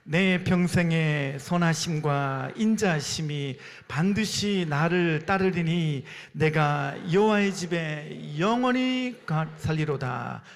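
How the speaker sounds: slow, measured group recitation. Real, not acted. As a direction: recite the verse slowly, drawing out phrase ends. 눈 감고 해보겠습니다. (한 구절씩 길게 끌며 암송)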